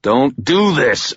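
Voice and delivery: tense, pleading warning; growled plea. Acted. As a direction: push back hard against the villain. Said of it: "I growled".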